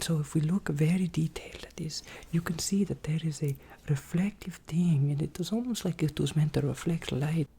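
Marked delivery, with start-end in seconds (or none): 0.0-5.1 whispered showing; asmr whisper. Acted. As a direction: whisper close.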